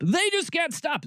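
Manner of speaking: They just can't stop, pitched high in mock exasperation; exasperated high. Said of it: "repeated with exasperation".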